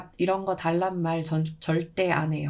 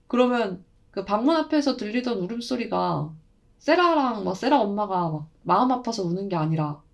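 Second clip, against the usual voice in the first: plain reading voice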